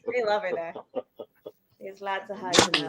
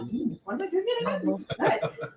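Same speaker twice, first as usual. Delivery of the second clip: mock sipping connoisseur; 10 semitones higher, 5 dB quieter than usual. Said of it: "I'm like".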